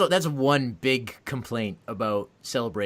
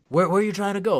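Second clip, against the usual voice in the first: put-on high, loud bewildered old guard; confused old man; 7 semitones higher, 7 dB louder, faster than usual. A confused old security guard, high and bewildered. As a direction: play a baffled old man.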